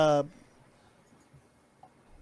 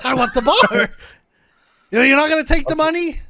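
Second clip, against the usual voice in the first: laughing plea; 5 semitones higher, 8 dB louder than usual. Acted. Character pleads, laughing through it.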